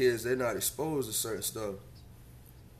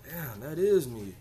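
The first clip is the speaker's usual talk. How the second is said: quoting a parent; 3 semitones higher, slower than usual. Retold or imitated. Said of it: "You're like".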